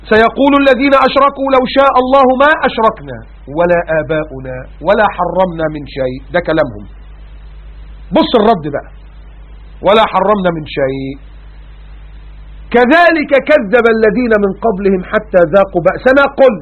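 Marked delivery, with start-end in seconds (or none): 0.1-6.2 Quranic recitation. Acted. Reciting verse. 9.9-16.6 slow, drawn-out melodic recitation; Quranic recitation. Acted. Preacher reciting the verse to the congregation, slow melodic chant.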